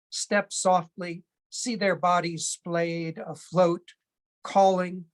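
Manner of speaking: measured poem recital with pauses between phrases; deliberate, spaced-out poetry delivery; poetry reading. Acted. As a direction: read it as a poem, line by line, letting each image land. Reads own poem aloud.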